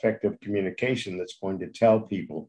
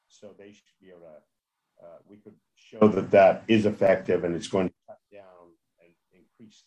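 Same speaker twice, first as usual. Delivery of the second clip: radio breaking up. Real, not acted. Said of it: "Your voice is going in and out".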